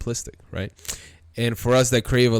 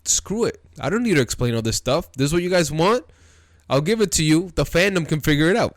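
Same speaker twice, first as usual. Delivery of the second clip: higher-pitched mock quote, throwing it out to the fans; imagined dismissive Toriyama; 6 semitones higher, faster than usual. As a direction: voice a creator giving in, pitched up. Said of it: "And Toriyama was like".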